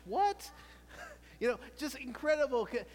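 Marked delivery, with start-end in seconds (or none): 0.1-0.6 much higher and louder in disbelief; astonished what. Shown as a demonstration. Pastor shows amazement at an incredible sight. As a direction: gasp it out in shock. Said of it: "a horse with a six-inch mustache".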